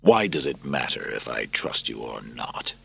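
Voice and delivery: weary soldier. Acted. Narrator voices Maximus.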